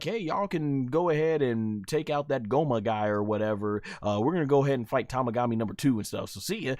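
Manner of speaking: breezy goodbye on the way out; nonchalant. Retold or imitated. Goku leaving the others to wait, nonchalant. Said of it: "Goku just leaves so nonchalant".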